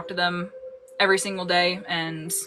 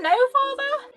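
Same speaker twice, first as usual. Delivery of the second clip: mock formal address; 4 dB louder, slower than usual. Mock formal greeting to dad.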